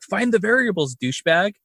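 mock a man snapping at himself; irritated. Imitating a film scientist scolding himself, irritated. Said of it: "all irritated and he's like".

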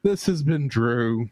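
slow, drawn-out host outro; a theatrical show outro; podcast sign-off. Acted. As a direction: sign off slowly, like a radio host. Signs off the episode.

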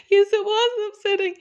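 hammed-up child agreeing; child's voice. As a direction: answer like the upset little child. Child answering in story.

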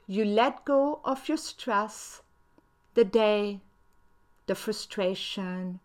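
guided meditation. Acted. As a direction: breathe the count out calmly.

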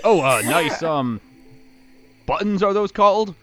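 put-on hesitant British accent, rising at the end. Game master as Balthazar asks about buttons, back in a British accent. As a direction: switch to British, lifting the final question. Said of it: "He was definitely British accent before".

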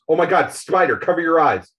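lightly acted warning to a friend; retold cry to look away; urgent warning. Character cries urgent warning in retold comic.

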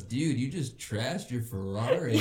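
slow, lightly voiced stoner; imitated stoner dude, slow delivery. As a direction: drag it out like a baffled stoner. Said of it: "stoner dude rolls up".

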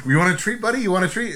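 put-on high, loud baby-talk offer; hammed-up coaxing of an excited little kid; treat-offering excitement. Offering a kid a treat, mock excited. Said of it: "Like a little kid".

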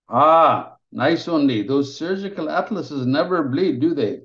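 a gruff mentor warming up; teasing senior surgeon. Acted. Softened surgeon teases Digby.

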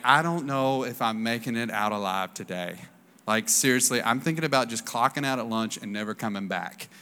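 exhausted worker counting the hours, defeated; weary defeat. Retold or imitated. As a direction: sound worn down by the job. Worn out at job months later.

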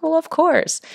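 high, loud, playful certainty; emphatic agreement. Acted. Thinking of what the healer had said, emphatically agreeing. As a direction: call it out as totally obvious. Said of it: "I'm like".

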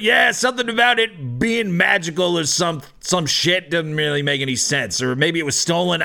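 confused, dismissive bouncer; bouncer character. Acted. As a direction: relay a story you don't believe. Bouncer explains to the captain.

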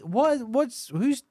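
ordinary talk, nothing marked

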